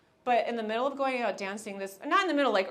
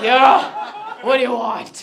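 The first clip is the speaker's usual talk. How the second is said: flirty coy voice; 13 dB louder, much slower than usual. Retold or imitated. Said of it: "I don't think my voice can naturally do that anymore".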